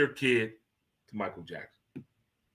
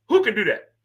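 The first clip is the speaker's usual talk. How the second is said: amazed; 6 semitones higher, 4 dB louder than usual. Real, not acted. Marveling at Michael's feat.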